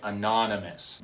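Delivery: "anonymous" with "non" emphasized; second syllable of "anonymous" stressed. Shown as a demonstration. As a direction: put the weight on "non" in "anonymous". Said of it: "I'm emphasizing the syllable non".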